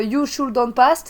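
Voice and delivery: slow, bad English in a French accent; terrible English accent, slow movie quote; Gandalf. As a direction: draw the wizard's line out in French-accented English. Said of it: "mon accent anglais, c'est terrible".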